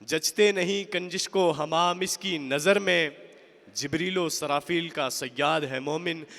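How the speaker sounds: emphatic, measured verse declamation; ringing Urdu poem recital; poetry recitation. Acted. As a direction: declaim each couplet, lifting the repeated line.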